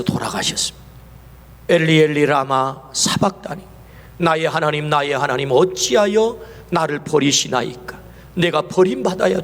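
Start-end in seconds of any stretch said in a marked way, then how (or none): 1.7-8.0 anguished cry. Acted. Quoting Jesus on the cross.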